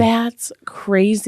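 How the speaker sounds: breathy stunned whisper. Real, not acted. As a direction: whisper it in disbelief. Stunned reaction to murder story.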